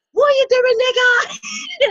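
put-on shrill, very loud, high, drawn-out drunken scream. Retelling how a drunk man yelled at a brother walking by: imitating a drunk man screaming. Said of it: "He was screaming at him".

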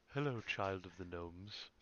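low, very slow, ethereal, dreamy voice. Voicing a magic horse greeting a player: ethereal Galadriel-like voice. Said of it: "the horse has this super ethereal voice, like Galadriel".

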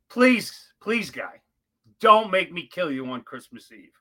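mock pleading voice. Retelling a standoff with a man holding a knife: retelling his own begging. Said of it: "I beg him".

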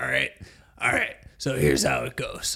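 raspy smoker voice. Starting to tell a story, catching own voice: smoker voice. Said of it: "there's the smoker voice coming out".

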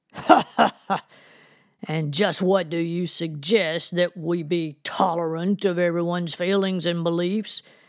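derisive sarcasm with mock laughter, cynical and mocking. A narrator reads a reverend's reply during a disagreement, cynical and mocking. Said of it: "His tone was cynical and mocking".

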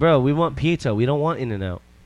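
ordinary talk, nothing marked

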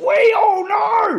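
high, slow, loud mock yell.

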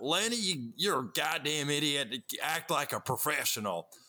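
put-on dim, dumb-sounding southern accent. Retelling the voice he did for a role, a dumb southern drug dealer voice. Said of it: "so I did the voice, which was like".

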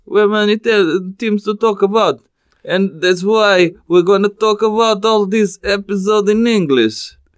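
mock Russian accent. Speaker switches to english to open the episode, mock russian accent. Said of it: "O doutor fala com sotaque russo".

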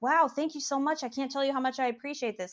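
pleasant, nice, lifted voice. Retelling how he thanked the speaker for the artwork, imitating a pleasant, nice tone. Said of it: "Like really like pleasant, nice".

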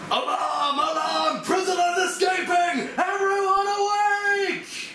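incredibly loud, very high, drawn-out alarmed shout. Voicing a guard who raises the alarm at escaping prisoners: incredibly loud shouting. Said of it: "an incredibly loud voice shouting in Dwarven".

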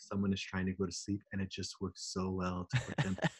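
flat, very quiet, low droning monotone. Demonstrating how to read a sleep book aloud, monotone reading voice. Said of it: "You read it in a monotone voice, just like this".

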